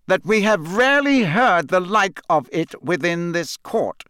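put-on a judge talking over a pleading boy. A narrator's reading. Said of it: "speaking more loudly".

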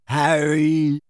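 dazed, drawn-out greeting; giggling weakly. A narrator's reading. Dazed boy greets his friend, weakly giddy. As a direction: call out in giddy delirium. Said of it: "giggling weakly".

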